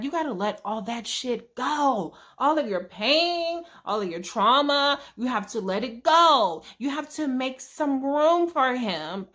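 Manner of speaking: slow, drawn-out preaching voice, milking each phrase; preachy uncle. Retold or imitated. Uncle counsels heartbroken niece, slow preachy delivery. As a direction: sermonize it slowly like a wise uncle. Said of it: "Okay, I'm saying it this way".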